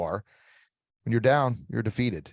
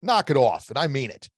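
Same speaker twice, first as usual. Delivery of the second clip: firm warning; 4 semitones higher, 5 dB louder than usual. Shown as a demonstration. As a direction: shut the bully down, shoulders back. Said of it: "head up, and say".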